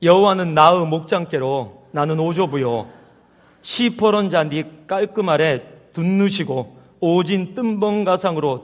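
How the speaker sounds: imitated Jeolla accent, reading with gusto; Jeolla dialect. Preacher reading Psalm 23 to the congregation, in Jeolla dialect. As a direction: read it out in an amateur Jeolla dialect. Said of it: "전라도 버전도 있습니다".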